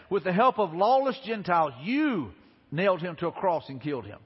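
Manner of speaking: retold accusation with emphatic opening; bold proclamation. Peter preaching to the crowd that crucified Jesus, boldly accusing. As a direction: proclaim it boldly, landing on YOU. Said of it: "Look at the boldness".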